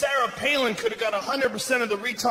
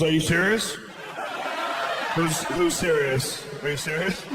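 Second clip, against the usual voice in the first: incredulous; 4 semitones lower than usual. Retold or imitated. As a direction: ask in stunned disbelief. Incredulous friend voiced.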